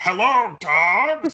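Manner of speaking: very loud, high, hammy villain voice. Suggesting how someone should talk to confuse the dogs; villain voice. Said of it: "That's more of a villain voice than a deep voice".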